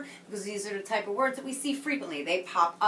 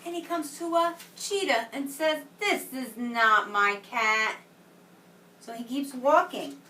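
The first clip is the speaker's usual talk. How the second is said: put-on reading to children. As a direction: read it like a picture book to a class. Reads story to children.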